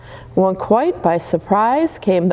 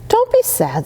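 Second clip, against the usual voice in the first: put-on a touch of gentle comfort from the old moon. A narrator's reading. Old moon comforting little Starlet, gently. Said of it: "said the old moon gently".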